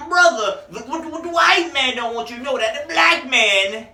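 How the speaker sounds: loud, high preacher-style street orator; black power voice. Pretend. Doing his favorite voice for the listeners, hammed-up black power orator. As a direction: preach it like a fiery activist on the corner. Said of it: "that's my black power voice".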